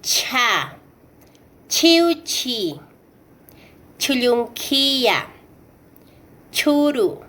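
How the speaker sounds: "cha", "Chiuchi", "Chulunquilla", "Churu" with a puff of air after the CH; "cha", "Chiuchi", "Chulunquilla", "Churu" as airy chh; aspirated CH. Shown as a demonstration. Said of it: "Como siguiente".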